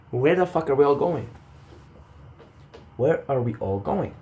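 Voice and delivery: laughing through the question; amused, laughing "where the fuck". Real, not acted. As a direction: let a laugh break in.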